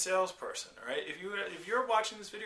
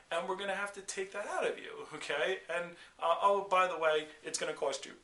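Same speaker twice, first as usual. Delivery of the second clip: ordinary talk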